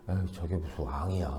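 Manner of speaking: low, hushed scornful grumble; dismissive scorn. Acted. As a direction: belittle him quietly under your breath. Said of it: "막 무시하는 말을 했는데". (무시하듯 낮고 작게)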